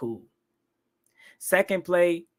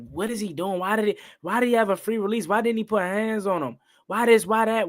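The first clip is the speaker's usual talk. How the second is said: exasperated questioning; 4 semitones higher, faster than usual. Retold or imitated. Retells first reaction to coverage mistake.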